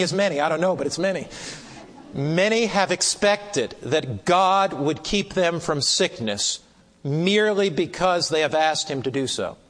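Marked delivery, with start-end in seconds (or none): 2.1-9.6 measured, deliberate reading with weighty key words; slow, powerful reading. Real, not acted. Preacher reading a precious statement to the class, slowly. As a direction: read slowly, giving weight to each phrase. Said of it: "I'll read it slowly because it's so powerful".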